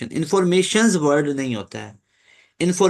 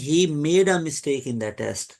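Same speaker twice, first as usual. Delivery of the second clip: slow reading; much slower than usual. Shown as a demonstration. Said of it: "did नहीं".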